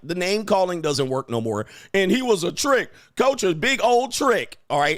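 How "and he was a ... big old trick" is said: higher, slow mocking whine; mock complaining woman. A vlogger mocks a woman calling her ex a trick, slow and higher. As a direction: stretch out the last words like a put-on complaint. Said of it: "that's what it sounds like".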